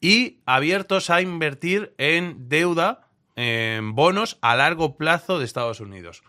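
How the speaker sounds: drawn-out words, deliberate pauses between items; emphatic recited quote. Retold or imitated. Co-host continuing an analyst's list of positions, slow and emphatic. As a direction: list it slowly and firmly. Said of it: "esto es lo que decía él".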